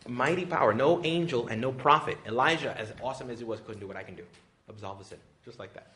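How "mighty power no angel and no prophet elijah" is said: proclaiming loudly. Real, not acted. Preaching proclamation.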